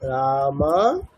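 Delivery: slow "রামাহা", long vowels then a separate "হা"; visarga as haa. Shown as a demonstration. Teacher showing visarga after long aa, slow "রামাহা" with separate final হা. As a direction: draw out "রামা", then add "হা". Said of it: "যদি আকার থাকে তাহলে কি হবে?".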